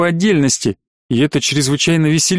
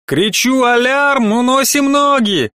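soldier voice; 9 semitones higher, slower than usual. A narrator's reading. Soldier explains the plan.

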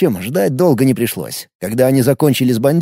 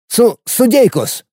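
stammering; 8 semitones higher, slower than usual. A narrator's reading. Frightened officer stammers.

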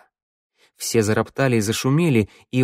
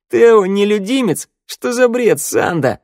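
loud, high-pitched incredulous scoff; scornful snort; 11 semitones higher, 6 dB louder than usual. A narrator's reading. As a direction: dismiss it loudly as nonsense. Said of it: "фыркнула Шныряла". (возмущённо, с презрением)

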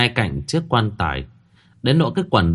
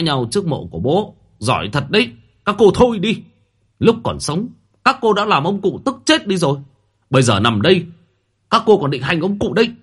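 much higher and louder commanding shout; stern shout; 9 semitones higher, 4 dB louder than usual. A narrator's reading. Eldest brother silencing the women at the grave, stern shout. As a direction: shut the squabbling women up. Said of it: "liền lên tiếng quát".

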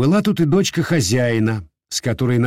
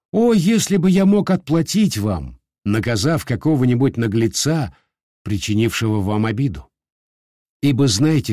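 лёгкая рыцарская торжественность; чуть приподнято, как клятва рыцаря; торжественный голос. Acted. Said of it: "торжественным голосом сказал". (торжественно и величаво)

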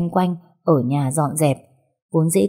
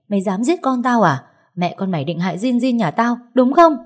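furious accusation; 5 semitones higher than usual. Acted. Furious mother accusing the woman she blames, shouting. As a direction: lash out, accusing her of trying to kill the child.

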